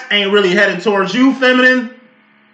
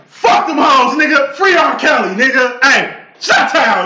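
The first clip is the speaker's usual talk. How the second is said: hyped shouting; 4 semitones higher than usual. Real, not acted. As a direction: shout it out like a rally cry. Hyped chant for R. Kelly.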